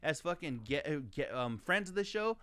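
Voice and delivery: tripping over words from anger; stumbling, riled-up stammer; stuttering. Real, not acted. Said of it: "I'm over here stuttering and shit".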